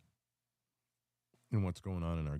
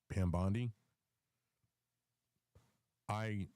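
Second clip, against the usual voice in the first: hiccuping mid-sentence; words broken by hiccups; 3 semitones higher, slower than usual. Real, not acted. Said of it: "I have the hiccups".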